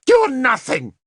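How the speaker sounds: high, loud shouted contempt; savage shout. A narrator's reading. Queen turning savagely on Nimue, shouting high. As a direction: hurl it at her savagely. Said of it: "turned on Nimue savagely".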